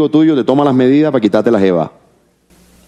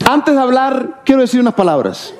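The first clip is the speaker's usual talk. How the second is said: much higher, put-on voice of a singer; solemn saying done as the singer, pitched up; impression of a singer; 12 semitones higher than usual. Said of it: "Diomedes un día tiró una". (voz de un cantante, aguda y solemne)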